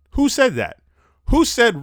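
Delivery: loud, high disbelief; incredulous. Real, not acted. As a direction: demand it in disbelief. Incredulous outburst.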